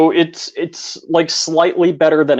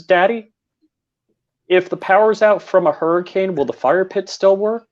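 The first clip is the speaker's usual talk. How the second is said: lightly raised, a hint of a little girl asking; child's voice; 5 semitones higher than usual. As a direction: voice the young daughter's innocent question, a bit higher. Dad voicing his young daughter.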